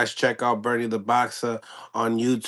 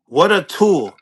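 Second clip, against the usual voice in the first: dismissive quote; 5 semitones higher, 4 dB louder than usual. Retold or imitated. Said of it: "He says".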